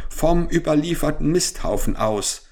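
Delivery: viel höher, laut gerufen; kräht es laut hinaus; schreiend. A narrator's reading. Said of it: "schrie Arminius Silberbein". (Hahn schreit der Henne vom Misthaufen vor)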